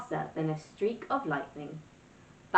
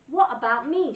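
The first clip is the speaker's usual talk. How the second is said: higher, louder screech; 6 semitones higher, 7 dB louder than usual. Acted. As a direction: shriek it like a spoiled brat. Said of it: "she screeched".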